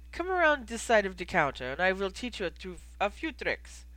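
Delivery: lightly voiced innkeeper with a foreign accent; measured, accented innkeeper explaining a recipe; a hint of the foreign-accented barkeep. Plays innkeeper Goldie.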